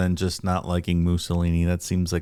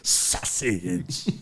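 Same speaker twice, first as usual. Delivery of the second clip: whispered sausage; 5 dB quieter than usual. Retold or imitated. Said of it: "It's a weird inflection".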